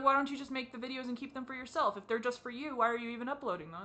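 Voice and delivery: quick mock challenge, pressing the questions; challenging questioner. Critic questions the speaker about uploading the videos, challenging. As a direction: fire off doubting questions.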